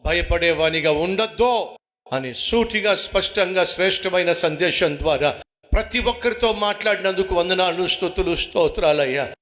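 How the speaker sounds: earnest prayer voice over music; closing prayer. Acted. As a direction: pray to the Father, humbly and steadily.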